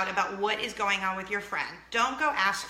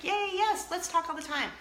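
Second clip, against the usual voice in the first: much higher, hammed-up cheerful yes; mock eager mom; 8 semitones higher than usual. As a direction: play the overly keen mom who always wants to talk. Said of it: "that mom who's like".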